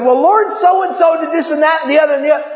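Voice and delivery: fast, whining list of complaints to the Lord; whiny complaining. Retold or imitated. Preacher mimics a believer griping to the Lord, fast and whiny. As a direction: rattle off grievances like a tattletale. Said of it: "spoken to the Lord and said".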